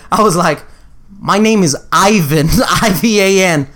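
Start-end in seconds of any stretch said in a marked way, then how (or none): 1.2-3.7 slowly and deliberately spelled out; slow clarification. Retold or imitated. Correcting a stranger who misheard his name, slow and deliberate. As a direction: spell it out slowly for someone confused.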